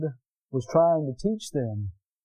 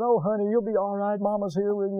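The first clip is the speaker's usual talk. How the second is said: soothing mother; 4 semitones higher than usual. Retold or imitated. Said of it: "Mother, you know, they're down there hugging".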